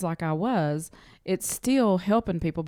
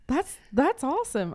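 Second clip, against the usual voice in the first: mock impressed Ben; 7 semitones higher than usual. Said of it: "He said".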